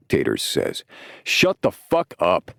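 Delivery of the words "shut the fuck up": high, slow drawn-out yell. Acted. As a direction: yell it at him, dragging the words. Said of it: "Hornsby yells".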